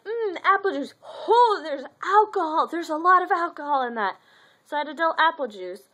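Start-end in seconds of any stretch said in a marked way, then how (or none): 0.0-4.2 surprised. Pretend. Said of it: "'cause it was like".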